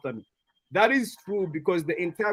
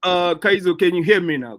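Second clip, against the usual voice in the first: louder, for a bad mic; to someone hard of hearing; 6 dB louder than usual. Real, not acted. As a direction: project so they can hear. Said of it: "Speak louder".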